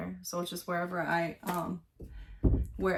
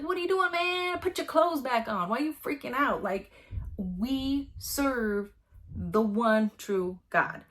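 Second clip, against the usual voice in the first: much higher, louder exasperated Elisha; exasperated prophet; 3 semitones higher, 3 dB louder than usual. Retold or imitated. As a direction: scold the king like a buddy. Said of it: "that's what he's saying here".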